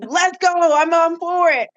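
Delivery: high, eager mom voice; eagerly up for anything. Retold or imitated. Daughter voicing her heavenly mom, high and eager. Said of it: "She was like".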